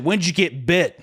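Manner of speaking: lightly hammed-up high-voiced question; imitating hospital worker. Patient retelling a hospital worker's question, imitated. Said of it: "she said".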